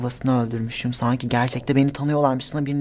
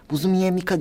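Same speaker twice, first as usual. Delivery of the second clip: mild mock yell; half-hearted imitation of hecklers calling out; imitated yelling; 3 semitones higher, faster than usual. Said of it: "diye bağırıyorlar".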